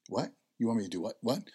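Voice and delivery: can't believe what he's hearing; shocked disbelief. Retold or imitated. Son's alarmed disbelief at request.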